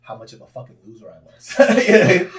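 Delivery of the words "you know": high, loud laughing tag question. Real, not acted. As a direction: burst out laughing on the words. Laughing at his own loser remark.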